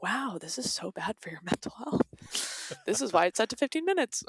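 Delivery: laughing self-rebuke; a touch of amused scolding, rising at the end. Retold or imitated. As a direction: chide yourself through a laugh. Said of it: "and I'm like".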